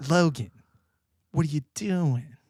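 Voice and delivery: slow, scolding grandpa voice breaking into a laugh; mock-stern old man scolding; imitating grandpa. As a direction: grandpa telling him off, drawn out.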